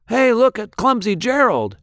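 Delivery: high, mocking jeer at the clumsy one; jeering crowd voice; sneering taunt. A narrator's reading. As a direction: sneer it like a playground bully. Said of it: "the animals all sneered".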